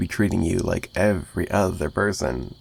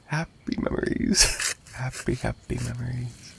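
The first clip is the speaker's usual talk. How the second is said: softer, half-whispered reminiscing; dreamy whisper; 3 semitones higher, 5 dB quieter than usual. Acted. Captor recalls past victims to his captive, soft dreamy half-whisper. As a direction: murmur it as a fond memory. Villain savoring past kills.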